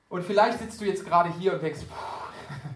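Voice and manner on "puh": voiceless puff of air, mock overwhelmed; acted "phew" of being overwhelmed; imitated overwhelmed puff. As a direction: blow out air like a daunted listener. Imagined listener reacting to hard message.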